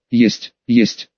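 low, distorted eerie mimic; a warped, inhuman echo of his voice; shrieking forest voice. A narrator's reading. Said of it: "визжал лес впереди".

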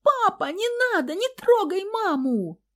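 put-on very high, loud little boy's shriek; child's frantic scream. A narrator's reading. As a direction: cry out like a terrified small boy. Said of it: "Федькин истошный крик".

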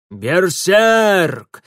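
громкий тревожный крик, грубым голосом; заорать в тревоге; крик воинов. A narrator's reading. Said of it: "заорали воины". (тревожный крик воинов)

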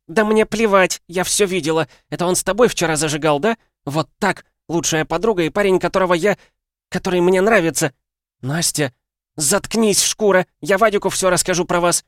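высоко и громко, срываясь на крик; обманутая подруга кричит в ярости; ревнивая истерика. A narrator's reading. (истеричный крик)

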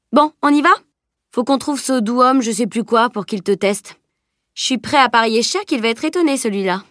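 lightly voiced cocky boy; garçon blagueur. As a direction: banter with playful self-assurance. (garçon un peu vantard, ton taquin)

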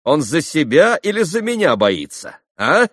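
agitated demand. Acted. Katerina pressing Alyosha about the message, agitated demand. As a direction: hurl the questions in bitter agitation.

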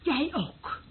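loud, high teasing through laughter; loud gleeful mockery; laughing tease. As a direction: laugh at her while you needle her.

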